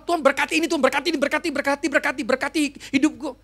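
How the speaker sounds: pleading prayer pitched high, mocking; mock begging prayer. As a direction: parody a needy believer tugging at God. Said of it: "memegang tangan Tuhan". (doa memohon yang diejek, nada tinggi)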